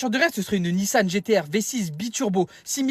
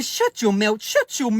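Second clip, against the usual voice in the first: slow, put-on Irish fighter's accent; mock Irish tough-guy talk; Conor McGregor; slower than usual. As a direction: tell them off in an exaggerated Irish accent. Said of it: "il parle comme Conor McGregor".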